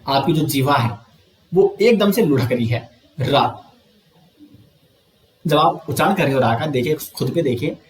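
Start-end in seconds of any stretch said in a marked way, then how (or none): 3.2-3.4 रा with a rolled, trilled र; रा said alone with a clear trill; demo of रा. Shown as a demonstration. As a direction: roll the tongue on रा so it vibrates. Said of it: "जैसे आप रा का उच्चारण करते हैं तो रा".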